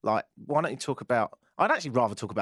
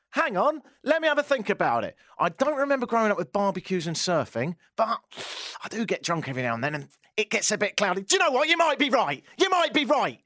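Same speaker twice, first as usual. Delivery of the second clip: mock pondering; 11 semitones higher than usual. Answering a passenger who took them for Australian, mock pondering.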